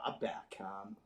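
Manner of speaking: soft unvoiced whisper; whispered thought. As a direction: whisper it to yourself as you take aim. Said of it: "and I thought".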